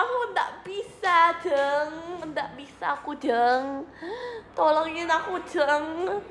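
mock Javanese lament calling "Jeng"; Javanese accent. Streamer whines for help in a put-on Javanese accent. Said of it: "Enggak gitu nadanya".

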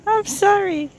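high, laughing "I'm sorry"; laughing apology. Real, not acted. Gardener apologising to viewers while laughing, high and amused.

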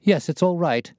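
high-pitched nervous man; jangled nerves. A narrator's reading. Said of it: "as well as his voice testified to his jangled nerves".

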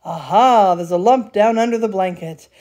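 loud delighted aha; excited discovery. A narrator's reading. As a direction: pounce on the find.

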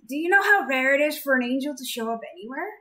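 can't believe it; amazed. Acted. Amazed Idas.

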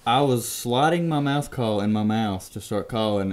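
usual speaking voice

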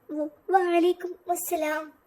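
slow, stammering വ-, വഅലൈക്കും അസ്സലാം with a nervous catch; a shy bride too frightened to get വഅലൈക്കും out smoothly; trembling. Acted. Bride answering the groom's greeting, stammering and trembling. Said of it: "അവൾ വിറച്ചുകൊണ്ട് പറഞ്ഞു".

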